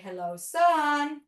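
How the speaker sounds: put-on cheerful kids' yoga chant, drawn out; sing-song kids' greeting. Shown as a demonstration. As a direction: greet the sun like a children's teacher. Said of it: "we're gonna say".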